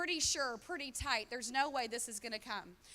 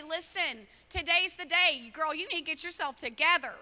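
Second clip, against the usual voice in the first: friend's tough love; 4 semitones higher, 9 dB louder than usual. Retold or imitated. A good friend telling you straight.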